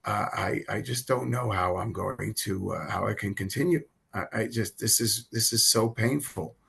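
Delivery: soft, low retelling of despair; close to tears. Retold or imitated. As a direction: confide it quietly and haltingly, near tears. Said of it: "I'm about to cry now".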